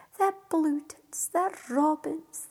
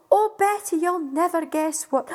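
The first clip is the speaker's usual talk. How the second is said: excited; 6 dB louder than usual. Acted. Jack bursting with news to wife.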